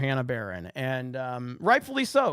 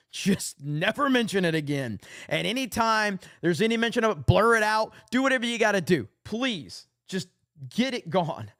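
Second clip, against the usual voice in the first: pleading; 5 semitones higher than usual. Real, not acted. Pleading with Trump.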